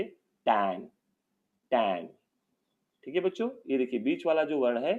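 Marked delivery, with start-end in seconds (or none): 0.0-2.1 टैन read slowly as a model word; टैन sounded out for children to repeat; teacher models टैन; sounding out. Shown as a demonstration. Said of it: "तो हम इसे क्या पढ़ेंगे?".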